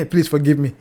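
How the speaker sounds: laughing apology through a chuckle. Real, not acted. Apologising to viewers for ranting, laughing. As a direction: laugh it off while asking forgiveness.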